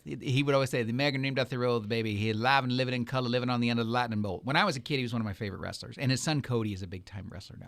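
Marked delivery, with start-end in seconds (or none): 0.8-4.4 a hint of Dusty Rhodes cutting a promo; low, easy wrestling promo voice, only lightly put on; Dusty Rhodes impression. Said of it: "he talked like this".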